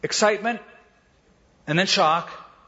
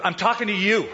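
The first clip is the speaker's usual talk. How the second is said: amused retort; 5 semitones higher than usual. Retold or imitated. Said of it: "She goes".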